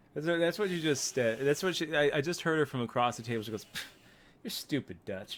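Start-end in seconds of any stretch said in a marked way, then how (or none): 4.4-5.3 put-on scornful jeer, whispered. Quoting what a person said from across the table, mock sneering. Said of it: "Michelle is like sneering at me".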